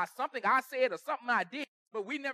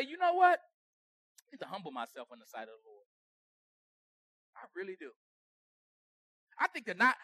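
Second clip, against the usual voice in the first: humble self-talk; 5 semitones lower than usual. Retold or imitated. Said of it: "I gotta talk to myself".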